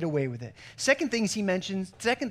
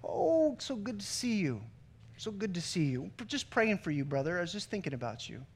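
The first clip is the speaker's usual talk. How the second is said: false flattery; 7 dB quieter than usual. Retold or imitated. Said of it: "this is where false flattery comes in".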